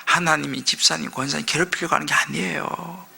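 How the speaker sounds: soft, low aside to a neighbor; a gentle hushed message; telling your neighbor. Shown as a demonstration. Preacher modeling words to the neighbor, soft and low. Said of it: "선자의 말을 한번 전해줍시다".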